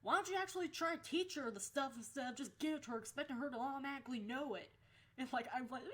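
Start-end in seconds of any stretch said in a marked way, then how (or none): 0.0-4.7 fast, high, loud telling-off; indignant yelling. Retold or imitated. Kid defending a classmate against the assistant, yelling fast. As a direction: fire it off in the teacher's face. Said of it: "he yelled at some crabapple bitch".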